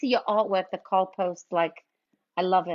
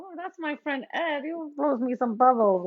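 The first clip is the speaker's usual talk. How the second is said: retelling own reply; 3 semitones higher than usual. Retold or imitated. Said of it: "And I'm like".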